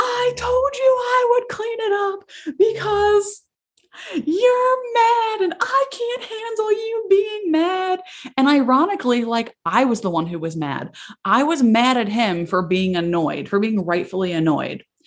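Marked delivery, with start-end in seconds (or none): 0.0-8.0 very high-pitched, shrill wailing scream-crying through tears. Retelling the speaker's own outburst at him, imitating scream-crying. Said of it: "I started like scream crying".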